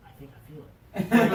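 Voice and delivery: high and loud, laughing through it; imitating him while cracking up. Retelling the drunk brother feeling his head, laughing.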